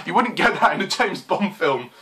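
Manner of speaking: repeated through a laugh. Real, not acted. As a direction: say it while chuckling. Repeated laughing after drawer slam.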